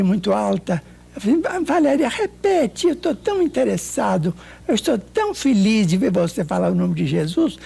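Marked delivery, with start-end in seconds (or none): 1.4-7.6 joyful. Retold or imitated. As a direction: coax her on, thrilled she speaks. Overjoyed as the friend speaks.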